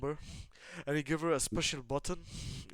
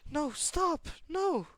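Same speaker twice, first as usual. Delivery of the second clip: high, louder cry of "no"; panicked cry; 6 dB louder, much slower than usual. Acted. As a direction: cry out as if attacked, acted. Lilith crying out in the story.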